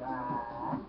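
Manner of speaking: low, soft mock "ah"; imitated cry out the window. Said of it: "one going out the window like".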